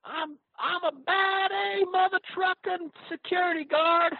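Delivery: a fake Southern good ol' boy voice; southern accent. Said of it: "trying to do his southern accent".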